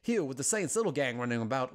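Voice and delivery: British professor voiced with an Old West twang; hammed-up Old West accent, hurried in places. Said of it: "giving him an Old West accent".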